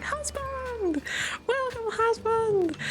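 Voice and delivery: high, sing-song welcome for a tired husband; doting wife greeting. Acted. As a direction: greet him like an overeager sweet wife. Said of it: "the kind of wife that comes home like".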